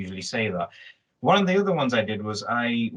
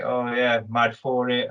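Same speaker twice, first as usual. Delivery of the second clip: lightly done Manchester accent; slower than usual. Shown as a demonstration. Showing the accent learned over time, light Manchester accent. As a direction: slip casually into a Manchester accent. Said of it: "couldn't do the Manchester accent properly".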